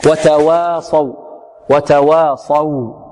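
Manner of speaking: وتواصوا slowly, with a light waw and a heavy sad; slow model reading. Shown as a demonstration. Teacher reciting slowly for students, light waw. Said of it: "مرققة".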